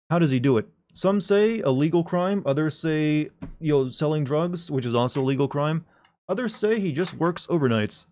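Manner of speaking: mock serious news report; news reporter voice. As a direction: read it like a field reporter. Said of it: "there's a pressing news announcement".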